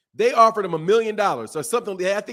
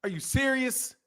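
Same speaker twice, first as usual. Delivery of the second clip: high, hushed disbelief; incredulous; 5 semitones higher, 6 dB quieter than usual. Real, not acted. Boxer to commenters denying pay-per-view money, hushed disbelief. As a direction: breathe it out like you can't believe it.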